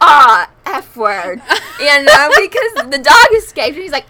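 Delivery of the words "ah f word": loud, drawn-out mock cry of dismay; imitating his dismayed shout; retold exasperated yell. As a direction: blurt a long, loud stand-in curse. Retelling his yell as dog escapes.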